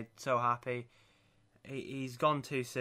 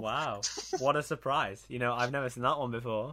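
sarcastic wow. Real, not acted. Mocking Werner's miss.

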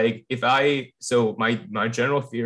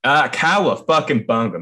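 excited cowabunga; 4 semitones higher, 6 dB louder than usual. Pretend.

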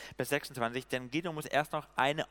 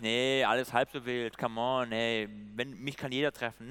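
lower, drawled, laid-back dismissal; mock casual brush-off; 3 semitones lower than usual. Preacher mimics what God does not say, mock casual. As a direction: shrug it off like it's nothing.

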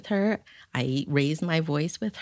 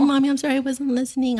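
high, louder voice, welling up; teary retelling; 9 semitones higher, 4 dB louder, faster than usual. Retold or imitated. Mom moved by her daughter's apology, teary and high-pitched. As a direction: choke up while quoting a child's apology. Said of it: "I'm getting teary".

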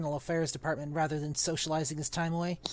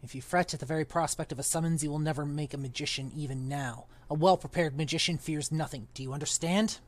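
put-on pompous old magician; 3 semitones lower than usual. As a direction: sniff at it like a stuffy old master. Reads Underwood's lines in character.

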